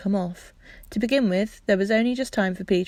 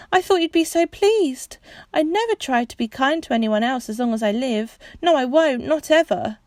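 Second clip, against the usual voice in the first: tearful; 5 semitones higher, 4 dB louder than usual. Acted. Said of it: "She burst into tears".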